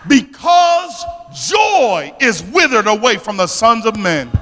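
full-voiced sermon delivery, key words stretched and punched; impassioned preaching. Real, not acted. Preacher telling the congregation why the harvest perished, impassioned and forceful. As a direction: preach it out, driving each phrase home.

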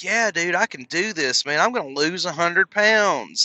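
a touch of cocky. Pretend. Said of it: "confident and a little bit cocky".

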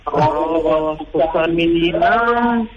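phone voice with echo; echo on the line. Real, not acted. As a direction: voice bouncing back on a bad phone line. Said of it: "No, sempre con eco".

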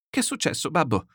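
high, anxious daughter's voice; frightened. A narrator's reading. Daughter rushing in at the noise to her father, frightened. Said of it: "La figlia accorse spaventata".

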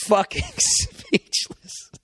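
words broken by laughter, very high; laughing. Real, not acted. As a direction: crack up while saying it. Laughing recalling friend stunned.

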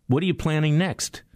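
a hint of a chummy greeting across the plane; friendly call-out. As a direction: call out to him nicely, mock-friendly. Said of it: "he yells out in a very nice way".

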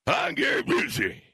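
drawn-out, shouted celebrity impression; Gary Busey. Shown as a demonstration. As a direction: show how the impression should go. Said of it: "No, it's like this".

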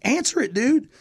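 egging him on to pick up; urgent urging. Retold or imitated. Bandmates urging him to answer the phone, high and urgent. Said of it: "everybody's like".

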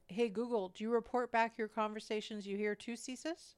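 talking through a mouthful; words round a bite of food; mouth full. Real, not acted. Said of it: "I had a mouthful of food".

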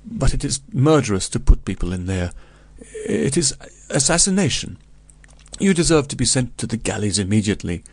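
a peasant outraged at the deadly room; indignant rage. A narrator's reading. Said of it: "trembling with rage".

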